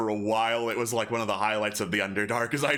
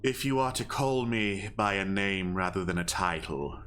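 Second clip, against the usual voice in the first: owl leader voice. Acted. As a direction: speak as an ancient owl lord, deliberate.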